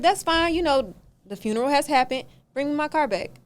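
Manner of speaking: high, loud and exasperated; exasperated demand. Retold or imitated. Telling the renter to bring the car back, loud and high. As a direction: push hard for the car to come back.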